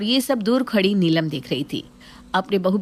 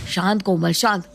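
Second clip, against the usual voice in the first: calming. Acted. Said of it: "समझाते हुए कहता है".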